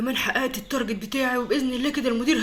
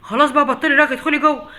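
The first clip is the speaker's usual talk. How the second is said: annoyed; 3 semitones higher, 6 dB louder than usual. Acted. Father cuts off chattering daughter.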